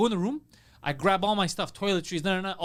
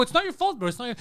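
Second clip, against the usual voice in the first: retold high-pitched reassurance; 4 semitones higher than usual. Acted reassurance to apologetic comic.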